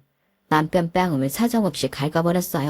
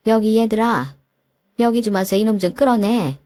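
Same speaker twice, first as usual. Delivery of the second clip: raised, higher call across the room; 4 semitones higher than usual. Acted. Mother calls her nephews to drag the husband out, raised call. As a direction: summon the boys to drag him off.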